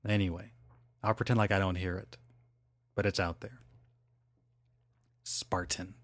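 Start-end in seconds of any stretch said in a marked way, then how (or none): 5.2-5.9 "Spartan." said with a glottal stop for the T. Shown as a demonstration. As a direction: swallow the T in "Spartan.". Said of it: "That's called a glottal stop".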